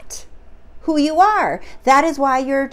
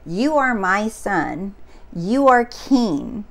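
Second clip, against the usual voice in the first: quoted father's words; 2 semitones lower, slower than usual. Retold or imitated. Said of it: "that's when he hears".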